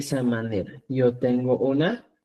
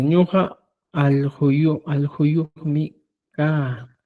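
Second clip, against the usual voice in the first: slow wrong example; much slower than usual. Shown as a demonstration. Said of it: "Habla así. No, no es así".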